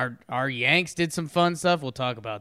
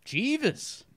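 mock butler voice; 11 semitones higher than usual. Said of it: "echoing the name in a put-on voice".

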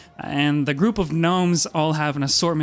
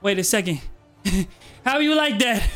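gnome double take; 2 semitones higher than usual. Acted. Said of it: "he does a double take and he says".

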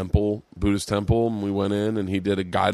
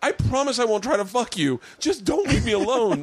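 much higher, needy whine; desperate pleading self; 13 semitones higher than usual. Retold or imitated. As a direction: beg like a lonely drunk. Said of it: "I was just shy of being like".

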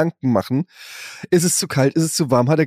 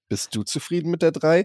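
softer, kind version of "Bist du zufrieden mit der drei?"; gentle tone; 2 semitones higher, 4 dB quieter than usual. Shown as a demonstration. Parent asking a child about a grade, soft and kind. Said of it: "da kannst du halt auch schon im Ton".

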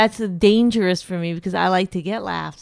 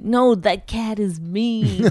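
slow, drawn-out jive impression; mock seventies hipster; much slower than usual. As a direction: lightly imitate a seventies cool cat. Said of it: "like a seventies black guy".

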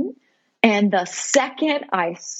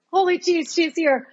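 high-pitched, overwhelmed exclamation; awed, higher-pitched reaction; retold amazement; 9 semitones higher than usual. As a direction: marvel at the new arrival.

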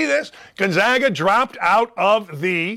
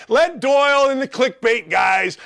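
ordinary talk

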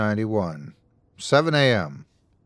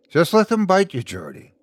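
mild raised-pitch shout; 9 semitones higher than usual. A narrator's reading. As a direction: call it out to a friend through a door. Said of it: "Leroy shouted".

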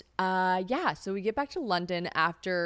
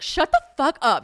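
high, loud disbelief; thrilled, incredulous exclamation; amazed outburst; 8 semitones higher, 9 dB louder than usual. Retold or imitated. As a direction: re-enact losing your cool with excitement. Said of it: "trying to act, like, a little bit more cool".

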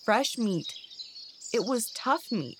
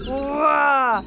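loud, raised growling roar; angry bear growl; 4 semitones higher, 8 dB louder than usual. A narrator's reading. Angry bear pouncing on the begging badger, growling. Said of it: "growled the angry bear".

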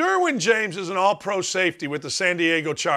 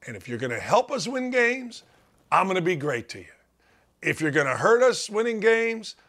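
playing Rodgers; 4 semitones lower than usual. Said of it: "if I'm Aaron Rodgers".

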